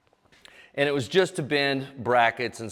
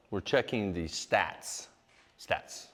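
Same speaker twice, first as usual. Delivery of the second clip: mouth full; 4 semitones lower, 5 dB quieter, much slower than usual. Real, not acted. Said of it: "Sorry, I have a chew on my lip".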